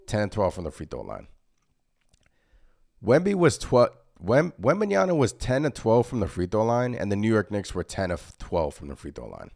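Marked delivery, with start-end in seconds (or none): 3.0-6.9 incredulous emphasis. Real, not acted. Incredulous stat repeat.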